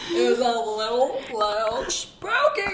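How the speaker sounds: drawn-out spooky tone; slow high spooky voice. Pretend. Spooky voice joke.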